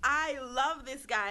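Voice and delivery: slow, stretched-out adoration; gushing. Retold or imitated. Now the biggest fan of the rapper, gushing. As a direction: draw it out like a smitten fan. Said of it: "But now it's like".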